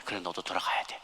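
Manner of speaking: low, soft retold divine voice; quietly but firmly send the child back; Jesus' gentle refusal. Jesus repeats refusal to the boy.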